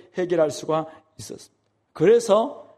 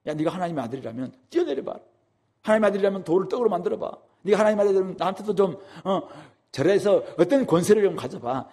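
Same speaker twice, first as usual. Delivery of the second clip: Satan's taunt; 3 semitones higher than usual. Retold or imitated. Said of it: "사탄이 그에게 던졌던 질문".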